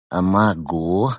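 slow, yawning through the words. A narrator's reading. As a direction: say it mid-yawn. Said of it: "ответил пингвин, зевая".

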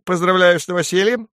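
high little sparrow voice; high-pitched small bird; sparrow's greeting. A narrator's reading. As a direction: chirp out congratulations. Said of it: "воробей говорит".

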